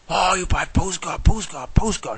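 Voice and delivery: high, loud, slow hawker call; imitated hawker. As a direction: push postcards like a pushy seller. Street hawker selling postcards.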